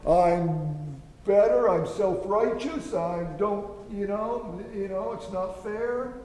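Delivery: mock self-righteous whine, slow at first; self-righteous brother. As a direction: sulk it out like the proud elder brother. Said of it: "He had a hard heart".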